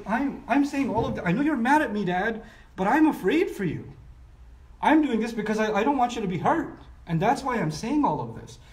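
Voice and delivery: sincere plea. Acted. Son pleading with his angry dad, sincere. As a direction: beg him to see you care. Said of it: "an enormous amount of sincerity in it".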